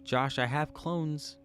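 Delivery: slow sing-song, pitch up; drawn-out sing-song. Real, not acted. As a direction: stretch it out playfully. Drawn-out higher call.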